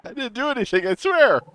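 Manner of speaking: squeaky high-pitched bear. Acted. Player voices timid bear character.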